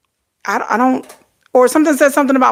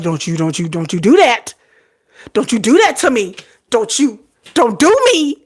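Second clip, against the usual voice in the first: mock pleading; 3 semitones higher than usual. To her teasing daughter, playful pleading. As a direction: beg her to stop, half laughing.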